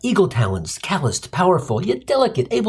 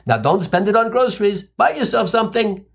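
Jewish mother voice; 5 semitones higher than usual. Retold or imitated. Mom quoted giving check.

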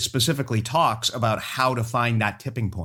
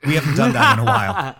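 laughing; 9 semitones higher, 6 dB louder than usual. Real, not acted. Laughing while asking.

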